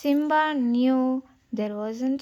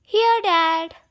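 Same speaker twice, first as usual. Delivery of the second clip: breathless cub's answer, unvoiced; out of breath from the rescue; panting; 6 semitones higher, 8 dB louder than usual.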